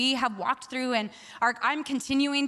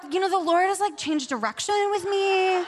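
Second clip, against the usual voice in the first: mock sheepish excuse; 5 semitones higher than usual. People giving up on New York, mock sheepish excuse. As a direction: imitate someone backing out, stretching the words. Mimics people backing out later.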